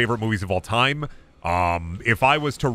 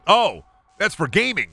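put-on innocent kid voice; 7 semitones higher, 3 dB louder than usual. Kid answers mom.

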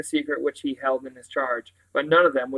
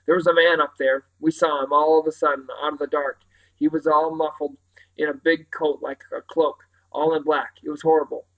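panting; 4 dB louder than usual. Acted. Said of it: "panting as he trotted along".

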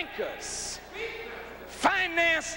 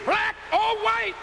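defiant proclamation; 4 semitones higher than usual. Real, not acted.

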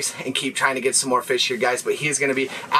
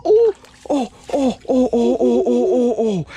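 ecstatic shouts; 10 semitones higher, 4 dB louder than usual. Real, not acted. Fish landed, ecstatic.

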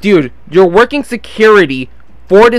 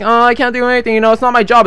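lightly put-on helpless voice, a little higher; mocking useless guard; 3 semitones higher, faster than usual. Security guard says it's not his job, mock helpless. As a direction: imitate a feeble excuse-maker.

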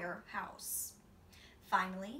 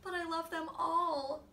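put-on higher, louder child plea; boy's plea; 9 semitones higher, 6 dB louder than usual. A narrator's reading. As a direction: beg like a child. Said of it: "Spencer cried".

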